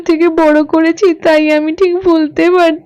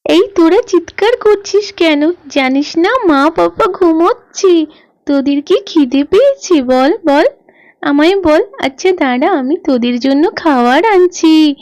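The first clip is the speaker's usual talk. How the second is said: put-on little girl. Little girl talks to hens.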